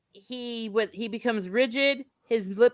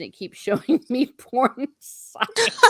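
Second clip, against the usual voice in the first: laughing; 5 semitones higher, slower than usual. Real, not acted. Reading a funny chat message.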